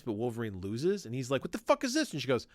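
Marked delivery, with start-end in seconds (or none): 1.4-2.1 high-pitched indignant cry; mock outrage. Wolverine protesting his loss, high mock outrage. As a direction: play Wolverine cheated of his win.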